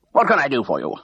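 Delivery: crisp, clipped army officer, in a near-whisper; brisk major voice. A narrator's reading. Bursar to Mrs Pargeter on the phone, brisk major voice. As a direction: snap it out like a retired major, hushed. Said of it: "asked briskly in his best major voice".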